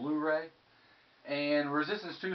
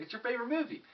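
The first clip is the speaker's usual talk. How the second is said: friend's voice; 11 semitones higher, faster than usual. Retold or imitated. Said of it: "He's like".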